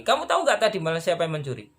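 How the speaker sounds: pressing question. Retold or imitated. Officer repeats question, pressing.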